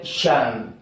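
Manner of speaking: "शन" low and falling, on its own; sound demo. Shown as a demonstration. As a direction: model "शन" as one syllable. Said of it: "एस आई ओ एन". ("शन" की साफ़ ध्वनि)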